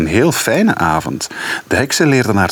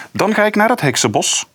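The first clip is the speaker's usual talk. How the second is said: put-on sighing girl; 12 semitones higher than usual. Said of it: "zuchtte Rozemarijn".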